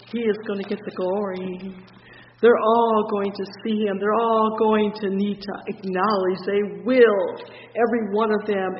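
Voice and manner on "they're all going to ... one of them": louder proclaiming preacher; preaching at full force. Real, not acted. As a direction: proclaim it to the congregation.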